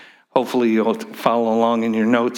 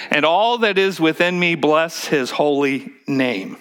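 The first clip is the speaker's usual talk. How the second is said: modeling the line; 4 semitones higher than usual. Shown as a demonstration.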